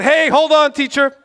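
high, loud call to stop the lecture; loud interruption. Retold or imitated. Zealous friend halting a university lecture, loud and high. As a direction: cut the teacher off mid-class.

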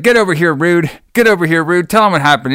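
put-on bossy call; mock summons. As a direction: call your wrestler over, play-acting. Acting out manager summoning his wrestler.

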